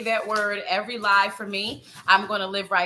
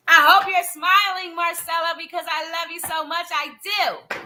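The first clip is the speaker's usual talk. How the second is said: high, gushing affection; playful gushing; 6 semitones higher, 4 dB louder than usual. Pretend. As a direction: open loud and high, then soften.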